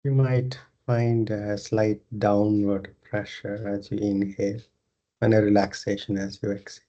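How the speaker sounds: unhurried meditation guidance with long pauses; guided meditation. Acted. Leads a yoga nidra meditation.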